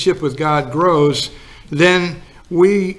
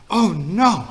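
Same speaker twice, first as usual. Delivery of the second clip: raised, half-acted alarm; frantic; 4 semitones higher than usual. Wife at the bridge table remembering the Sabbath, lightly acted panic. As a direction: let the worry spill out, pitched high. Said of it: "And she got frantic".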